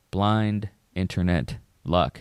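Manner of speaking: slow, spaced words landing on "luck"; stress on LUCK. Real, not acted. Podcaster stresses how much is chance, emphasis on "luck". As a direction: set "luck" apart with weight after "blind internet". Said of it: "Emphasis on the word luck".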